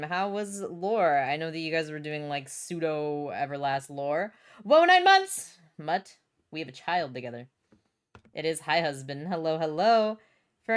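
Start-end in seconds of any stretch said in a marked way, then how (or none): 4.6-5.6 high, loud burst of surprise; amazed exclamation. Real, not acted. Streamer reacting to nine months sub, amazed. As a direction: exclaim in astonishment, pitch way up.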